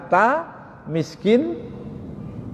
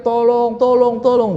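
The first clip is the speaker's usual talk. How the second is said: retold cry for help; 7 semitones higher than usual. Man trapped in a dark well, mock shouting for help. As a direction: call out high, imitating repeated pleas for rescue. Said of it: "Kemudian dia teriak-teriak".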